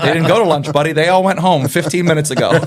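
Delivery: talking through real laughter; can barely get the words out for laughing. Real, not acted. Laughing while quoting himself.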